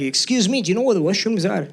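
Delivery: lightly imitated thick Scottish accent; retold question with a Scottish lilt. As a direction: mimic a Scottish customer. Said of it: "had a thick Scottish accent".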